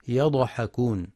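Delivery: يضحكون with a bouncing echo on the ض; the error: knock the ض of يضحكون with a rebound; wrong qalqala. Shown as a demonstration. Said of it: "بقلقلة الضاد". (قلقلة الضاد خطأ)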